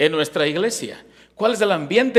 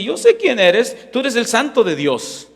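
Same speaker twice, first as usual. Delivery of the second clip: high, raised voice of a demon; demon addressing Jesus; 5 semitones higher, 4 dB louder than usual. Acted. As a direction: declare it high and slow, as the demon recognizing Jesus. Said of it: "Y luego le dice". (demonio que reconoce a Jesús, voz alta y aguda)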